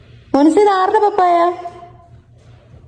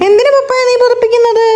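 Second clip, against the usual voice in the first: higher, pressing question; insistent questioning; 4 semitones higher than usual. Real, not acted. Mother asking child why papa gets covered, insistent. Asks again after no answer.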